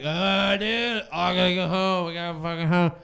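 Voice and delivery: put-on drunk bar yell. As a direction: bellow like a wasted guy at closing time. Drunk friend yelling in a bar.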